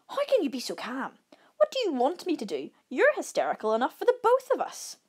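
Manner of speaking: high-pitched, agitated bickering; hysterical. A narrator's reading. Campers quarrelling over bear outside, hysterical. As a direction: voice climbing as the argument heats up.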